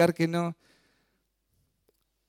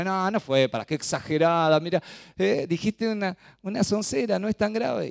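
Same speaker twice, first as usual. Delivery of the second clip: dismissive excuse; 5 semitones higher than usual. Acted. Flesh and Satan excusing her.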